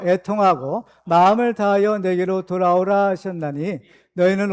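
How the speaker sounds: slow, measured reading aloud; scripture reading. Acted. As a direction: lead the congregation steadily through the verse.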